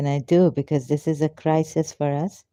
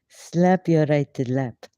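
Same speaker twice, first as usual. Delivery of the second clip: amused, laughing; slower than usual. Real, not acted. Repeats the funny line, laughing.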